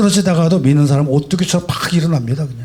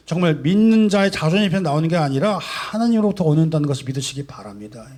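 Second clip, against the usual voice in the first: ordinary talk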